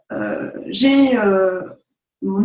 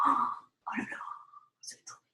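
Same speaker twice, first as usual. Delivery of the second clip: mock dread; 13 dB quieter than usual. Mock doom about precarity.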